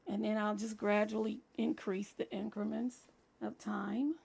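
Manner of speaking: a slightly scratchy throat. Real, not acted. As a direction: talk through a scratchy voice. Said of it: "My voice has been scratchy".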